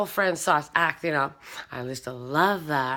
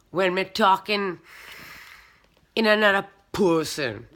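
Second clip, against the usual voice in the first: light put-on Jamaican accent, patois grammar; a mild Jamaican woman's lilt. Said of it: "talk like a Jamaican woman".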